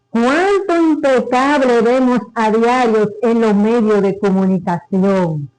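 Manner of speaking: measured, ironic declamation; declaimed monologue. Acted. Performer reciting a monologue on corruption to an audience, ironic declamation. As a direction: declaim it deliberately, pausing between items in each list. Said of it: "la declamación del monólogo".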